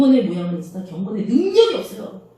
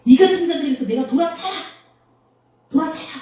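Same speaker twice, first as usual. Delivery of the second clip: raised-pitch, resolute order to turn away; emphatic, higher-pitched admonition; firm command; 6 semitones higher than usual. Acted. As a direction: quote it as a stern scriptural command. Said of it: "여기서 아주 단호하게 말했습니다".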